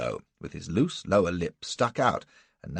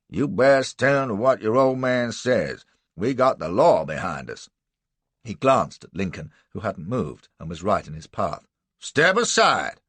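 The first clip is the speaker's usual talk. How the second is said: rough slave catcher; 4 dB louder than usual. Acted. Buck's voice.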